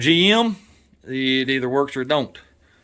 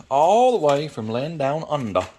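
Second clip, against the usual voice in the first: badly faked Australian accent; terrible Australian accent. Vlogger thanking a sender from Australia, in a poor Australian accent. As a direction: have a clumsy go at an Australian accent. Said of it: "That was a terrible Australian accent".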